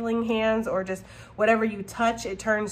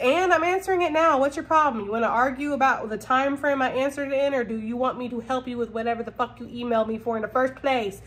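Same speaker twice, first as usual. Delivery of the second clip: snippy comeback; 3 semitones higher than usual. Retold or imitated. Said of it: "and it's like".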